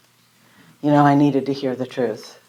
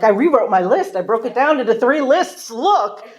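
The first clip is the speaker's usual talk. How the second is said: excited, higher and louder; pitched up, eagerly presenting; proud, eager announcement; 8 semitones higher, 4 dB louder than usual. Retold or imitated. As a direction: show it off like a triumph. Proudly shows sponsor her new lists.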